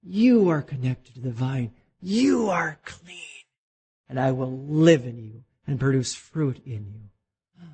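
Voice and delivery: tender. Retold or imitated. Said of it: "master gardener looks over you and says".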